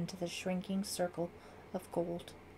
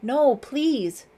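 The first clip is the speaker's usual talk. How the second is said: high, loud desperate plea; pleading; 7 semitones higher, 12 dB louder than usual. A narrator's reading. Suspect begs the gunman, desperate pleading. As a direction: beg urgently, pitched right up. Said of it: "Brett pleaded".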